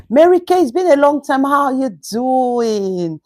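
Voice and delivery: excited greeting. Real, not acted. Livestreamer greeting a long-missed viewer, excited. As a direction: lift up bright and happy on the name.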